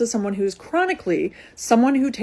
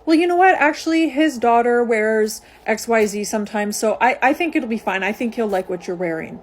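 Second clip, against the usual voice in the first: imitating the friend. Friend excusing her choice of outfit.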